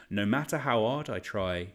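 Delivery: "hard" with its H dropped, Cockney-style. Real, not acted. Quizmaster rereading a question, accidental dropped H on "hard". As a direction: slip into Cockney by leaving the H off "hard". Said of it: "I accidentally dropped the H on hard".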